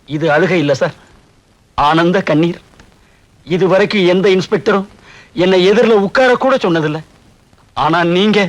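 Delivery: low, choked-up thanks; moved to tears, pausing between phrases; humbly weepy, voice dropped; tearful gratitude. Acted. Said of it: "ஏன் அழற?".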